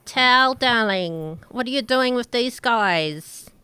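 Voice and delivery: slow, lightly voiced drawn-out darling; a hint of a coy diva; Orla's greeting. Orla greets Tal among the party, slow and coy.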